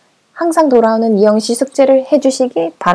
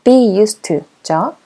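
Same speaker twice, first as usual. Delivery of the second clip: slow clear model; much slower than usual. Shown as a demonstration. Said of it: "익숙하다 뭐였죠?".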